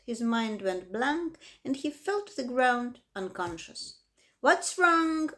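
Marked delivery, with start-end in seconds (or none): 4.4-5.3 louder, startled question over the loudspeaker; alarmed announcer. A narrator's reading. Announcer alarmed as Wilbur faints, loud question. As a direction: call out in sudden alarm. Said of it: "asked the loudspeaker".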